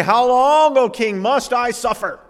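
high, loud, anguished wail; a hammed-up lament, pitched high and loud; wailing complaint. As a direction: cry out to the king about your suffering. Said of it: "He didn't say".

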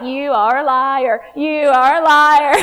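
laughing mock accusation; mock accusing, laughing. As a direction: call them out through laughter. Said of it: "I'll be like".

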